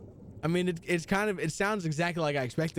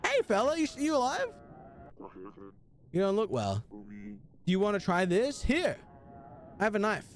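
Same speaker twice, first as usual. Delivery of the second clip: voiced stranger. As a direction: play the kindly stranger offering help. Voicing a game character.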